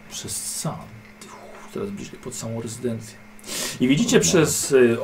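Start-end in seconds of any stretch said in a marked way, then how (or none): 0.1-3.2 whispered narration, hushed; sneaking whisper. A narrator's reading. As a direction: hush it like creeping closer.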